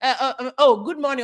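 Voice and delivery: imitating a hospital greeting while laughing; laughing mock greeting. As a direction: laugh through a put-on good morning. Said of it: "Me kwa hospital kra na mbusa say".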